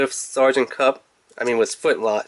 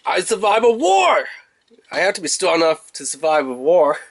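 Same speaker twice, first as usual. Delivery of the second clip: hesitant boast; 4 semitones higher than usual. Retold or imitated. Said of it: "He's like".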